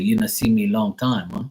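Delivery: lightly imitated broken-English accent; mild mock broken-English accent. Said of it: "he said it in broken ass English".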